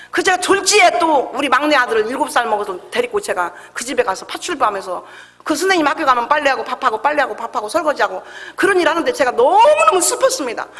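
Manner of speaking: usual speaking voice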